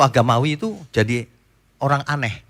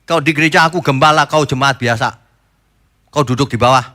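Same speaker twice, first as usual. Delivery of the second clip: arrogant pastor; 4 dB louder than usual. Retold or imitated. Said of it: "merasa kastanya lebih tinggi".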